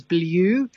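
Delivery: "blue" said as blyoo; old yod pronunciation. Shown as a demonstration. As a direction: put a y-glide into "blue". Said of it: "no longer pronounce as".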